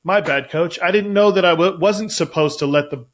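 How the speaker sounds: loud, hammed-up sheepish player; mock apology. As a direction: act out an exaggerated "oops, sorry coach". Mocks a player's fake apology.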